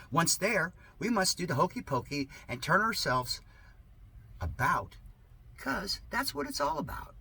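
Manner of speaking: sarcastic reading. Acted. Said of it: "Yes, this is sarcasm".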